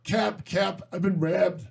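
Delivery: flat Michigan vowels; Michigan accent. Shown as a demonstration. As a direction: imitate Michigan with a big flat A. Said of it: "Michigan accents are kind of flat".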